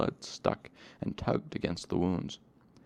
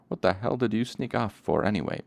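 demanding; 3 semitones higher, 3 dB louder than usual. Acted. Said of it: "Bast demanded".

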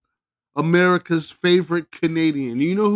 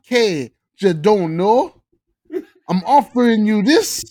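hammed-up Canadian accent, higher and laughing through it; dramatic reading in a Canadian accent, breaking into laughs; mock Canadian accent; 4 semitones higher than usual. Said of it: "With a Canadian accent".

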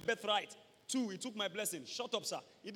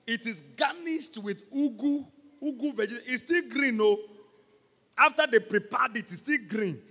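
relishing food; 4 semitones higher, 9 dB louder than usual. Acted. Describing tasty asaro.

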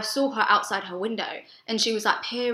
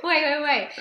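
laughing protest; 6 semitones higher, 4 dB louder than usual. Real, not acted. Laughing at friend's quote.

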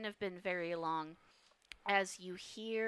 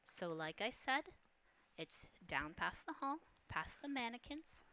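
softer, unhurried woman's voice drifting down from above; the mysterious woman warns Holmes to stay in his room, hushed; hushed feminine voice; 5 dB quieter than usual. Acted. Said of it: "you hear the voice above you go".

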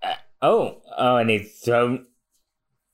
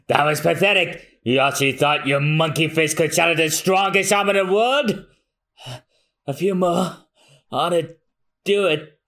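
taunting villain; 4 semitones higher than usual. Acted. Villain taunting in manga read.

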